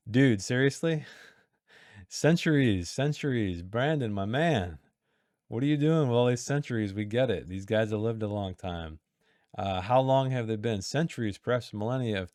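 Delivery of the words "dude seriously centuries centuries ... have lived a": mock exasperation. Real, not acted. Editor teasing Brandon about too many centuries, mock exasperated. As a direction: playfully scold the author for overusing a word.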